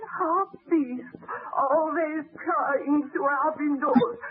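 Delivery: a grieving voice breaking into crying on some lines; tearful widow. Acted. The widow tells the baron how her husband was killed, weeping. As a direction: tell it through sobs, still in shock.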